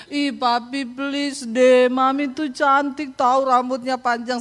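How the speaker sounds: lightly voiced pleading little daughter; imitated whining child. Youngest child pleading with Papi for Mami's hair, mock whine. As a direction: whine mildly, drawing out the pleas. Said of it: "Anak saya yang nangis, yang kecil".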